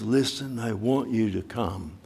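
soft, gentle invitation; tender call. Acted. God inviting believers near, voiced softly. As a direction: quietly coax them to come. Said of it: "He says".

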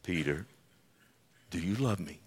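hushed, low, long pauses between phrases; tender questioning. Acted. Preacher voices Jesus asking if he is loved, hushed. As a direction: ask it softly and let it sink in.

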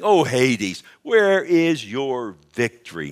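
loud, drawn-out taunt; mocking. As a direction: taunt a beaten foe, stretching the question. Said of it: "That's what he's doing. He's saying".

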